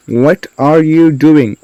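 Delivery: slowed-down question for learners; slow model sentence. Shown as a demonstration. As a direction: space out "What are you doing" slowly. Teacher repeats more slowly.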